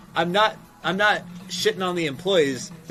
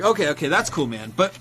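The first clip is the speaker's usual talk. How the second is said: pushy salesman. Retold or imitated. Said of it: "they'll be like".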